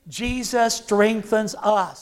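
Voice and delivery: slow, with "strengthens" stressed and a falling end; slow emphatic declaration. Shown as a demonstration. Preacher leading the church to repeat, slow and stressed. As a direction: lean hard on "strengthens", let it fall. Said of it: "Say it one more time".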